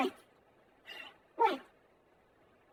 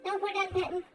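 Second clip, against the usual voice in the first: ordinary talk, nothing marked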